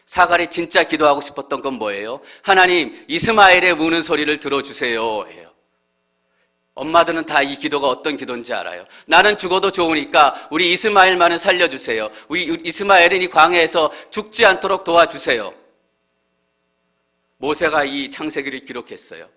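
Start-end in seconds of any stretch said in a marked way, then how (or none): 2.4-5.5 much higher and louder, desperate prayer; pleading cry. Acted. Mother's desperate prayer voiced. 9.0-15.5 much higher and louder, desperate prayer; pleading cry. Acted. Mother's desperate prayer voiced.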